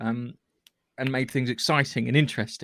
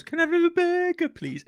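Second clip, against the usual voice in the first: mocking bad British accent, pitched way up. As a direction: send up a botched British accent. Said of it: "It sounds fucking awful".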